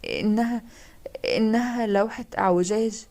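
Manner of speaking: slowed, halting words barely held together; a hint of a choked tremble, lightly voiced; choked, trembling voice. Maria, shaken by the painting, speaks choked and trembling. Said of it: "بصوت مخنوق وخافت وراجف".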